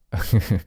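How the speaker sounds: brief, soft acted laugh; short chuckle. Man amused by the ghost's outburst, chuckling. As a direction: let out a small chuckle.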